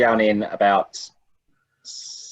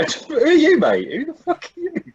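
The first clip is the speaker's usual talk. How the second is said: high, hammed-up "who the fuck are you"; mock aggressive challenge. Party confronting a nosy stranger, mock aggressive. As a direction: square up to a stranger in jest. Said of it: "We go".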